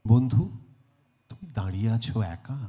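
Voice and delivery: measured poem reading with long pauses; poetry recitation. Acted. Host reciting a Bengali poem to the audience, lyrical recitation. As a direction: recite verse, letting each phrase hang.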